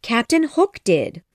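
high Tink voice; insistent fairy. Acted. Tink names the culprit to Peter, high and insistent.

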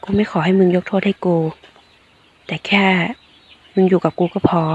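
tender apology held softly and unhurried; serious but gentle. Acted. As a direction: confess it quietly, meaning every word. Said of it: "เอ่ยออกมาด้วยน้ำเสียงจริงจัง แต่นุ่มนวล".

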